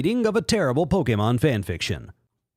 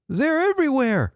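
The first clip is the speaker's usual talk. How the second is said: very high mock falsetto panic; Jake voice; 13 semitones higher than usual. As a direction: squeak it out like a frantic boy.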